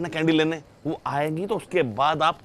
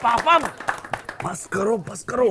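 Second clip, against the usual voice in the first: calling out; 4 semitones higher than usual. Acted. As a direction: call dad out across the room. Catching dad eating the cake.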